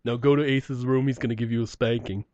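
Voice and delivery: lightly voiced scolding parent tone; tsk-tsk like a stern teacher; mock rock-singer scolding. A rock singer scolding the comedian, a hint of stern parent. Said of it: "the only way I can picture it going down".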